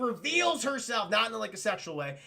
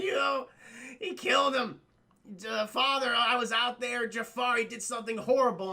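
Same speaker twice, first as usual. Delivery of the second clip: higher, lightly upset voice; mock tearful complaint; 3 semitones higher than usual. Daughter tells father he killed him, mock tearful. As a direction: imitate a distressed daughter, haltingly. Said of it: "She's crying and stuff".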